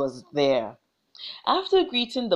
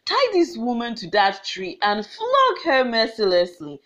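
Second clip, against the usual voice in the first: angry command. Acted. Chief orders flogging.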